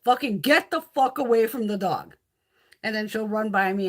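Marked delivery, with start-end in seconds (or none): 0.0-2.1 louder, annoyed scolding. Retold or imitated. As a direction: chase the cat off the dog. Scolding cat away from dog.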